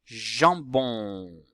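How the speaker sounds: teacher's drawn-out JAMBON; sounding out. Shown as a demonstration. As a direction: stretch JAMBON so the j can be heard. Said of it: "Si vous entendez le son".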